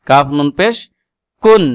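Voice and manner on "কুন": কুন with a clearly sounded final n; clear izhar. Shown as a demonstration. Teacher showing viewers a clear nun, clear izhar. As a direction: say কুন distinctly, no nasal hum. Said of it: "এটা স্পষ্ট".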